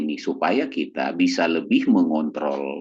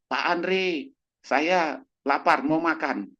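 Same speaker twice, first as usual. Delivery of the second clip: higher, slow pleading for food; whiny hungry patient; 10 semitones higher, much slower than usual. Retold or imitated. Old patient begs Pak Andre for more food, slow and whiny.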